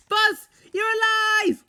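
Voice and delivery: relieved exclamation. A narrator's reading. Woody seeing Buzz alive, high relieved cry. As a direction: burst out with joy and relief. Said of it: "Woody exclaimed in relief".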